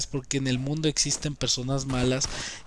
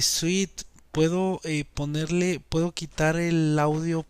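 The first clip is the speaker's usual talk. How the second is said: put-on small child's voice. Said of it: "con voz de niño chiquito".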